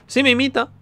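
high-pitched excited squeal of words; delighted discovery. Real, not acted. Delighted gnome copies the player. (agudo y encantado)

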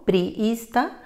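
priista with a long double i; syllables split. Shown as a demonstration. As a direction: stretch priista, pri-is-ta. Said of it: "La primera palabra".

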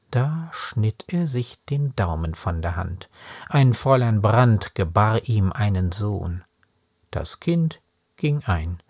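slow, measured verse with deliberate pauses; deliberate, paced reading of a poem; poem recitation. Acted. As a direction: recite it line by line, weighting each phrase. Recites a poem, then talks about it.

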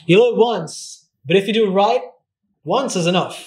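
punchy movie-line American delivery; American accent. Shown as a demonstration. To the host, saying his favourite line in an American accent. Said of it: "I guess the American one".

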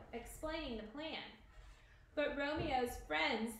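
measured read-aloud storyteller voice; story narration. A narrator's reading. Teacher reading Romeo and Juliet to the class, story narration.

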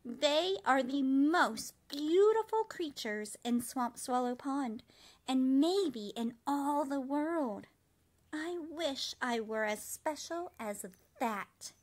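a touch of wistful longing; wistful cricket. A narrator's reading. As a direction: linger over the wish sadly.

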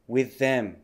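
"with them" as one unit with a single TH; linked TH sounds. Shown as a demonstration. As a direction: model "with them" joined, for repeating. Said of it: "くっついて".

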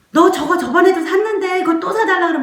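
fast, high-pitched mock telling-off; rapid-fire acted nagging at a child; scolding parent. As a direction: play a mother refusing a toy, exasperated.

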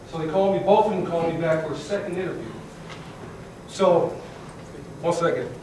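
talking with gum in mouth; words round a piece of gum; chewing gum. Real, not acted. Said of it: "improper to talk with gum in your mouth".

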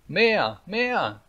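put-on high, insistent little-boy shout; demanding cry. A narrator's reading. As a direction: cry out greedily like a small boy. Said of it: "schrie Häwelmann". (forderndes Schreien)

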